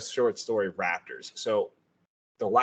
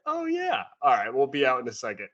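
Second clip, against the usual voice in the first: much higher, quick, laughing nonchalance; breezy dismissal; 5 semitones higher than usual. Retold or imitated. Space Wolf shrugs off the attack, high and breezy. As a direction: toss it off lightly, laughing. Person casually brushes off danger.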